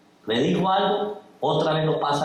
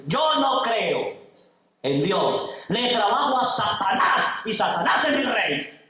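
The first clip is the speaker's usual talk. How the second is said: mock yell; 5 semitones higher than usual. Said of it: "el otro le grita".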